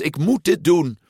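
high, insistent call. A narrator's reading. Son calls back to his parents while pedalling, high and insistent. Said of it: "riep hij al trappend".

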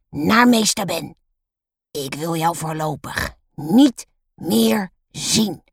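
slow, emphatic order; stern dismissal. A narrator's reading. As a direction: banish the pupil, weighting each word. Teacher sends pupil out.

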